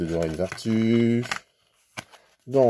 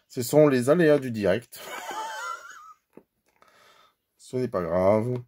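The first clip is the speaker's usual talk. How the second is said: laughing; 3 semitones higher than usual. Real, not acted. Laughs off stuck box live.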